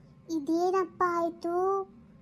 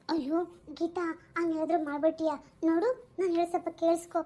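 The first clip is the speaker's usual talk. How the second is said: softer, pleading to be heard; ಮೃದುವಾಗಿ ಬೇಡಿಕೊಳ್ಳುವುದು; 6 dB quieter than usual. Acted. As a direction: hush and beg her to listen. Mother-in-law pleads with Geeta. (ಅತ್ತೆ ಗೀತಾಳನ್ನು ಮೃದುವಾಗಿ ಬೇಡಿಕೊಳ್ಳುವುದು)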